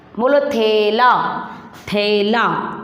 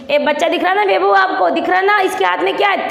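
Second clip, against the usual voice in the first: coaxing question; 7 semitones higher, much faster than usual. Acted. Coaxing a child to look.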